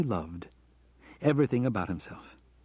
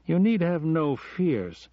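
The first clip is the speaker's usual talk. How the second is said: slow, gentle and higher; reassuring; 6 semitones higher, slower than usual. A narrator's reading. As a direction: soothe her fears slowly. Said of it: "trying to reassure her".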